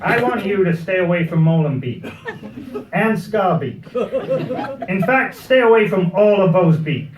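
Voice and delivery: hammy, badly faked American accent; terrible American accent. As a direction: quote a worried mum in a poor American accent. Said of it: "this is my terrible American accent".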